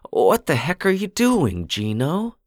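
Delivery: the wife can't believe what he's doing; wife screeching. A narrator's reading. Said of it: "his wife screeched".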